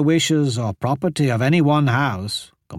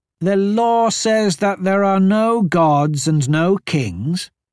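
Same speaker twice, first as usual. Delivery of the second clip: suspicious, slow, pitched-up distrustful tone; 6 semitones higher than usual. A narrator reads Kita replying to another speaker's account, suspicious. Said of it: "Kita said suspiciously".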